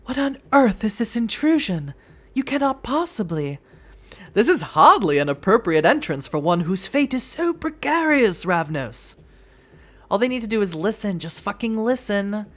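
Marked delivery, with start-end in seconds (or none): 0.0-3.6 high, affronted voice; outraged at the intrusion; indignant elder. Acted. Voicing an elder outraged by the intruders. 4.3-9.2 louder, lofty rebuke; haughty NPC. Acted. Scolding the reckless Ravnos in a haughty voice.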